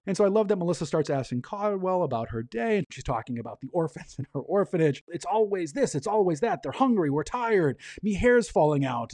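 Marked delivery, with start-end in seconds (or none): 5.1-9.1 raised-pitch whine, lightly imitated; a hint of mock wailing, imitating the children; mock-crying complaint. Orphanage keeper mimics her orphans over dinner, mock crying. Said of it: "she is mock crying these children".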